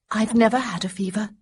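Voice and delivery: put-on gently hurried, unsure young woman; lightly voiced young woman. A narrator's reading. Young woman to feverish Marcus, lightly nervous. Honoria, never stressed.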